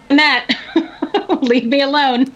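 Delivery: pleading while laughing; laughing plea. Retold or imitated. Panicked inner plea, laughing.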